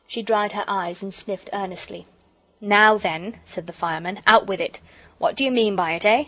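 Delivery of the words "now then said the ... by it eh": a louder, blunt working-man's demand; gruff fireman. Acted. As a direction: bark it out like a stern stoker. Fireman questions the stowaway girl.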